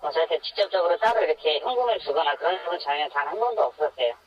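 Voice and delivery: anonymized voice filter for protection; voice-altered. Real, not acted. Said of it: "음성 변조로 진행되는".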